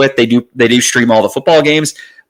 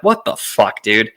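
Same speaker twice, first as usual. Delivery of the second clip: pitched-up what-the-fuck, half-mock indignant; exasperated disbelief; 4 dB quieter, slower than usual. Annoyed listener reacting to Howard Stern's delay, exasperated disbelief. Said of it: "And I'm like".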